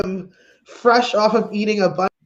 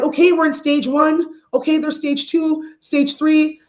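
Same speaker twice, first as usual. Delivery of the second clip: lightly mimicked, higher-pitched announcer; a hint of upbeat official, pitched up; mock official announcement; 5 semitones higher than usual. Comic mimicking officials announcing stages, lightly mock-announcing.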